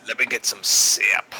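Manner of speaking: whispered saying. Acted. Quoting a Dwarvish saying.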